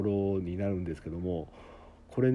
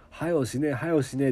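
はよしねえ repeated in Okayama dialect; an Okayama person in Tokyo who keeps saying it; 3 semitones higher than usual. Retold or imitated. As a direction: imitate a newcomer blurting はよしねえ. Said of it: "言いまくっちゃった".

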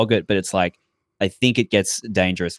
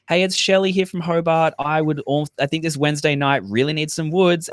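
higher, lightly put-on fake caller; a hint of a pretend listener from Hobart; mock alter ego requesting a song; 6 semitones higher than usual. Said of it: "you see the alter egos".

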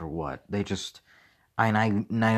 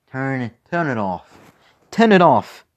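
slow then a loud, high-pitched cry; building to a shout; 6 semitones higher, 6 dB louder, slower than usual. Shown as a demonstration. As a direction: escalate from pleading to yelling. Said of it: "building to a shout".

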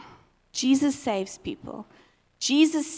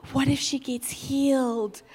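hushed wonder. Retold or imitated. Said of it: "And then I went".

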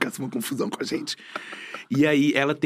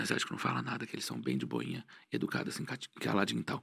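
dropped to a near-hush, much softer; 6 semitones lower, 13 dB quieter than usual. Retold or imitated. Describing quiet tourists in a queue, hushed. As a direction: sink the voice into a hush.

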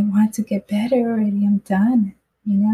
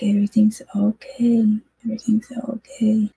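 soothing mother. Retold or imitated. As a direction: whisper it gently, as if calming a child. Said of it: "like a nurturing touch, you know, like from a mom".

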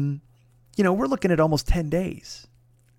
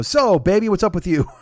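lightly imitated buddy, pitched up at the start; a touch of a breezy check-in, higher opening; Jeff; 4 semitones higher than usual. Buddy finally turning the talk to him, lightly imitated, higher opening. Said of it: "the way it works with Jeff".

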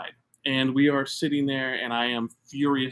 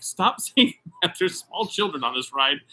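laughing wife; 3 semitones higher than usual. Retold or imitated. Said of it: "is laughing so hard".

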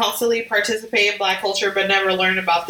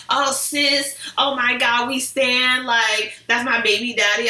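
exaggerated cartoon intonation; slower than usual. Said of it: "Why are you talking like that?".

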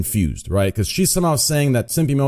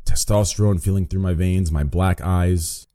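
lower, joking macho voice; lightly hammed-up macho brag, lower; mock deep voice; 6 semitones lower than usual. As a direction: put on a manly lower voice in jest. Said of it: "Is it the deep voice".

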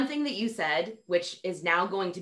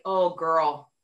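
tender pity; 3 dB louder, much slower than usual. Retold or imitated. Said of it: "I look and I was like".

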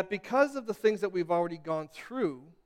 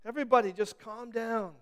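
calming voice; 2 semitones higher, slower than usual. Retold or imitated. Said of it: "he's like".

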